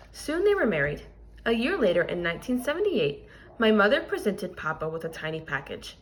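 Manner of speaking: expressive picture-book reading to a class; reading aloud to children. Acted. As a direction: read the story to the kids, clear and lively. Teacher reads picture book aloud.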